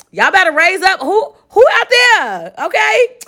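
high, eager call to unseen listeners; a host calling out to listeners in another state, high and eager; excited calling out. Real, not acted. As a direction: shout out to the crowd, pitch way up. Calling out to North Carolina listeners.

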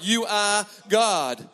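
slow, earnest worship line; sing-song devotion, lightly voiced; a touch of heartfelt praise; sincere praise. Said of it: "they're singing to God".

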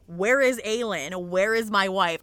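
insistent, loud quote of a desperate husband; acted demand. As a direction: play his forceful questioning, each word leaned on. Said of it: "he grabs Lorcan and he goes".

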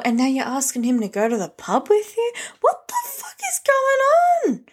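high, stunned mock outrage; calling out a two-faced friend, shocked and high; outraged disbelief. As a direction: call out the hypocrite in disbelief. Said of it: "And you're like".

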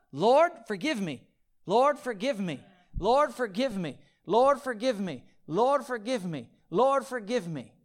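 hammed-up repetitive pleading; mock rote plea. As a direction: mimic an empty, rote apology. Mock repetitive hollow prayer.

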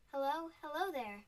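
high, loud hello; calling out. A narrator's reading. Scrooge calling out from the window, loud and glad. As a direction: call out happily.

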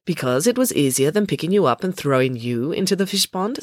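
matter-of-fact, understated answer; dispassionate. Acted. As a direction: answer without any feeling. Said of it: "said Ingrid dispassionately".

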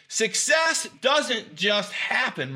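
slow, high, shouted declaration; emphatic shout. Real, not acted. Speaker preaching to his audience about success, slow rising shout. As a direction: hit it hard like the peak of a sermon. Motivational speech, building to a peak.

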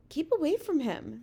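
high-pitched anxious plea; pleading. A narrator's reading. Sophie begging the giant to avoid danger, pleading. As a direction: beg in a small high voice. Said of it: "Sophie pleaded".

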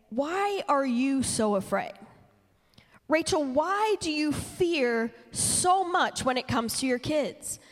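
slow, tender question; gentle Jesus voice. Retold or imitated. Jesus gently asking Rachel why she fears, slow and tender. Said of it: "I felt him that morning speak so specifically to me and say".

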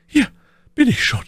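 high-pitched voice for the lady; Milady's voice. A narrator's reading. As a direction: play the lady far up in pitch. Narrator voices Milady in dialogue. (hohe Stimme der Mylady)

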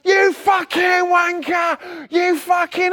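high, slow shouted insult; angry yard bloke shouting after the driver, high; retold shout. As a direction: yell it across the yard like a furious bloke. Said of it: "I heard this bloke".

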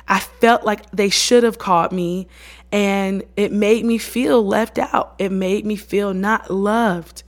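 slow, deliberate forgiveness; unhurried, childlike naming of feelings; simple, honest confession. Shown as a demonstration. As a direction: spell out each hurt slowly and plainly. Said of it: "you gotta say it like that".

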